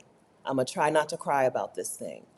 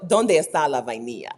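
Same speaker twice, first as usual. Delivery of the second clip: asking in Spanish; 3 semitones lower than usual. Retold or imitated. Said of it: "Like, I know".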